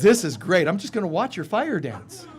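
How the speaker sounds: gleeful ego. Retold or imitated. The ego gloating at the burning seeker, loud glee. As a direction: gloat like a villain. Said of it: "And it says".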